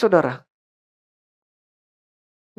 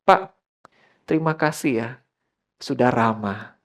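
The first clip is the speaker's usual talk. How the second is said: lower, gentle gratitude; retold sincere thanks; 6 semitones lower than usual. Retells thanking the kind attendant.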